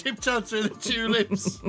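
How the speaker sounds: laughing through the song title, slowly. Real, not acted. Recalls his song by a singer.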